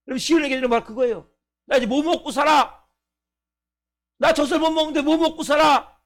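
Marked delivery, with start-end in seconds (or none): 1.6-6.0 put-on whiny baby voice. Voicing the weaned baby.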